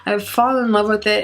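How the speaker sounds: hoarse, sick voice coming and going; raspy whisper. Real, not acted. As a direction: speak through a raw, failing voice. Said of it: "And excuse my voice".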